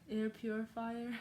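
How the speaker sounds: "air purifier" slowly, working through each syllable; "air purifier" drawn out with effort; careful pronunciation. Real, not acted. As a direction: take "air purifier" slowly as a hard word to say. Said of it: "That's such a hard word to say".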